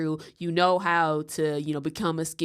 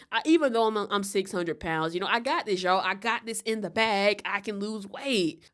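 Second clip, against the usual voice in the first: imitating her; 3 semitones higher than usual. Imitating Amber Lynn smugly.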